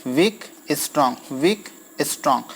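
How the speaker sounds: measured alternation of "वीक, strong"; teacher sounding out "वीक, strong" as a beat; iambic pattern demo. Shown as a demonstration. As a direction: recite "वीक, strong" in pairs with a short pause. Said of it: "एक वीक syllable होगा और एक strong syllable होगा".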